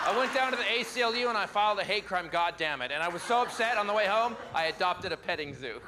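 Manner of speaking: lightly voiced gushing liberal, fast at the start; a touch of breathless outrage; liberal impression. Comic doing a liberal for the conservatives, light gushing voice. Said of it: "my impression of the liver".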